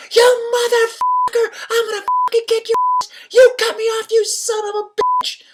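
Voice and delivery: screamed very high and loud, raw rage; shrieking road-rage tirade; furious screaming driver. Retold or imitated. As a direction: rage at him like a driver you just cut off.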